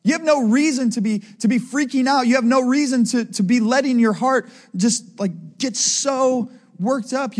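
mild, insistent scolding; rebuke. Acted. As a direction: reprove them point by point. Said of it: "It's a rebuke".

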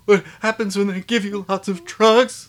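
high, strained mock-tearful voice; hammed-up fighting back tears; holding back tears. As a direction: imitate someone choking back tears, pitched high. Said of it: "Holding back tears, telling her".

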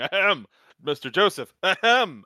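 imitating a polite, pointed throat-clearing; classy Avdol. Avdol with class addressing Joseph, mock-polite throat-clearing. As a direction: clear the throat for dignified attention. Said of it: "Avdol with the class going".

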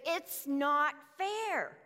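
long aggrieved moan of it's not fair; drawn-out grumble. Retold or imitated. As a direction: stretch out fair like a sulking worker. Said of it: "they begin to grumble".

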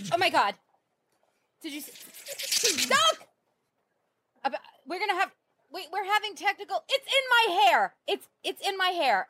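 high-pitched panic, shrieking stop; freaking out as something lands in your hair; panicked. Acted. Wombat attacks reporter's hair.

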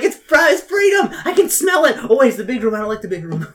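high excited cat voice. Pretend. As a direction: voice the cat squealing about freedom. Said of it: "Wiggles is like".

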